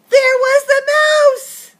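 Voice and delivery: high, loud, slow reveal; spring the surprise on the listeners; surprised exclamation. A narrator's reading. Narrator reveals the mouse is back, high and loud.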